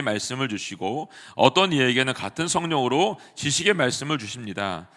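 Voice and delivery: measured, steady and even Bible reading; scripture reading. Acted. Pastor reading the passage to the congregation, steady solemn reading. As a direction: read each line clearly and solemnly.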